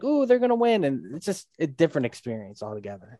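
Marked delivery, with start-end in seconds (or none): 0.0-0.8 put-on excited kid. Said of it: "you're like".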